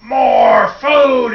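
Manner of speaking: high, loud demand for food; greedy clay boy. Acted. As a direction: holler like a ravenous clay boy. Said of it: "he said".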